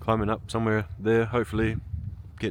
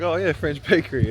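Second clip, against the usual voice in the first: naive tourist; 6 semitones higher, 6 dB louder than usual. Retold or imitated. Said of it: "So I was like".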